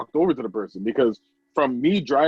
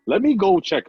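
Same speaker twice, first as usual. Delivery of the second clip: sudden concern; 6 semitones higher, 6 dB louder than usual. Retold or imitated. Imagined concern for crying man.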